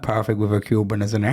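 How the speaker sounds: mock Indian accent. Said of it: "do an Indian accent".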